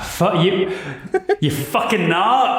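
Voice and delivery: a hint of an old hag cursing, cracking up; the hag drops the act and snaps at them. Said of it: "then you hear the voice go".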